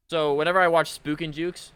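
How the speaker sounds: loud and high, revved up; excited. Real, not acted. Streamer jokingly plans to tease another creator, excited. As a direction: burst out with it.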